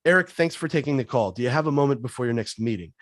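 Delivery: meeting said with a falling end, no upward lift; calm opener, pitch settling down at the end; downward inflection. Shown as a demonstration. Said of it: "Downward inflection".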